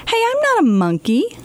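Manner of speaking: object, a bit outraged; indignant protest. Acted.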